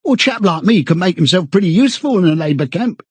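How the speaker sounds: high, pleading, stammering chap; eagerly appealing. A narrator's reading. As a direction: beg anxiously for reassurance. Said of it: "began eagerly appealing to him".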